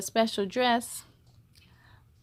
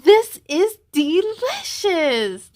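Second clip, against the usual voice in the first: slow, higher and louder, for all to hear; loud slow declaration of delight; loud for others to hear; 6 semitones higher, 5 dB louder, slower than usual. Acted. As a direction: announce it so the whole table hears. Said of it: "loud enough for the others to hear".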